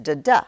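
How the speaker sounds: "da, da" with the second one stronger; weak-STRONG "da, da"; iambic stress. Shown as a demonstration. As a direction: lean on the second "da". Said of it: "that first one is just".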